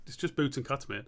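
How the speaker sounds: put-on soft, half-hearted Australian accent; attempted Australian accent. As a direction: have a rough go at Australian. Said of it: "a very good Australian accent".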